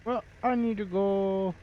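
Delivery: mock chimney-sweep English accent. Shown as a demonstration. Streamer signing off in his demo, playful English accent. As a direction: ham up a British accent. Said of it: "I can do an English accent".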